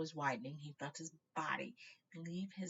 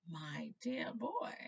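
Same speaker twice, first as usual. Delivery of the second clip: kindly; 2 semitones higher, 3 dB louder, much slower than usual. Acted. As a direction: say it gently like a grandfather. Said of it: "said Dippet kindly".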